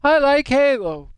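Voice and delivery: exaggerated squeaky exclamation; odd squeaky voice again. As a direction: redo it in the silly squeaky voice. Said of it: "I don't know why I said it like that".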